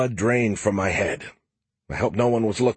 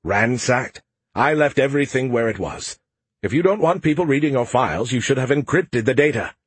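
grumbling Skippy; 4 semitones higher than usual. Acted. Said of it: "Skippy grumbled".

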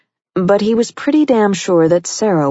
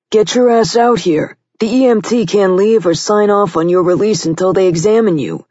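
loud, higher bossy yell; impatient shouting; 4 semitones higher, 4 dB louder than usual. A narrator's reading. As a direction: shout it across the room. Partner shouting from the doors.

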